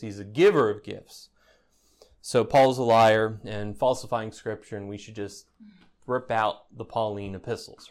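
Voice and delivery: ordinary delivery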